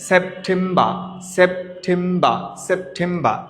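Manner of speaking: সেপ্টেম্বর with an aspirated "pʈʰ" and no final r; সেপ্টেম্বর drawn out slowly, the ending "-mba"; model pronunciation. Shown as a demonstration. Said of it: "দুইটার মাঝখানে ঠ".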